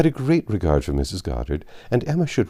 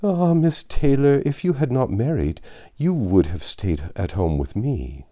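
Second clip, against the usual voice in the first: gentle reproach; 7 semitones higher than usual. Acted. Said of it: "with a look of gentle reproach".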